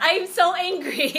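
mock angry. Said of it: "I'm not that angry anymore".

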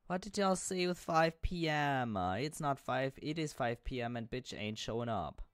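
loud high outraged rant; indignant. Real, not acted. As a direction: complain loudly, offended.

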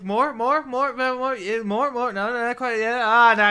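high, loud run of urging; mock egging-on. Acting out demands for more.

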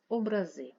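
образи with the final -зи stressed; stress on last syllable. Shown as a demonstration. Teacher contrasting word meanings, last-syllable stress on образи. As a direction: land on the end of образи. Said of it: "мають різний наголос".

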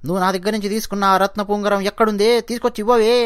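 scolding his wife over the lost ring, angry; angry husband yelling. Acted. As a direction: demand the ring back in anger. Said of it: "అని చెప్పి అరుస్తాడు".

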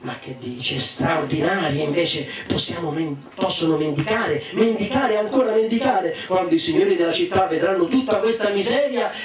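parte piano, poi sale acuta; da sommesso a esaltato. Acted. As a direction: moglie avida che si infervora man mano. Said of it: "gli sussurrò all'orecchio". (sussurro accennato che diventa entusiasmo)

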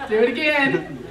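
loud, laughing do it again; laughing plea. Retold or imitated. Wife begging husband through laughter to repeat it. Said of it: "And I said".

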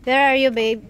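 loud call to a partner. Real, not acted. Vlogger looking for babe in the store, calling out loudly. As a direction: call across the store to find them.

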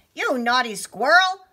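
high, loud storybook telling-off; acted indignation; mock scolding. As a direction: scold a naughty animal playfully. Hero scolds the squirrel.

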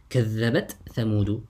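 كذبت with its final ت clearly sounded before ثمود; izhar. Shown as a demonstration. Teacher gives students the tha example, izhar. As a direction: keep ت and ث apart in كذبت ثمود. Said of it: "You recite with الإظهار".

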